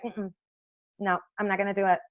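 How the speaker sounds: shutting the conversation down; curt refusal. Retold or imitated. Designer refusing the eye doctor, soft and dismissive.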